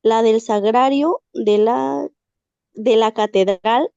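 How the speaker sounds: measured dramatic reading with pauses between phrases; story reading. Acted. Student reading a tale to the class, measured dramatic reading. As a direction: read it aloud phrase by phrase, letting each hang.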